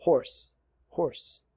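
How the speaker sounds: horse, horse with an American r; American accent. Shown as a demonstration. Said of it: "Veja ... muda a pronúncia". (sotaque americano em horse)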